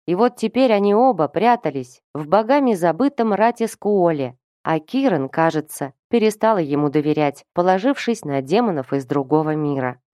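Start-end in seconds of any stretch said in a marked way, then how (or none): none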